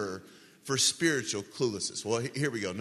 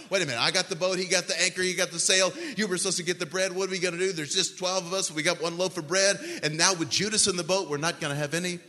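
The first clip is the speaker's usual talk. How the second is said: slightly raised, run-on flustered bickering; mock freak-out; 3 semitones higher, faster than usual. Disciples fret in the boat over one loaf, mild mock panic. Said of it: "They're all freaking out".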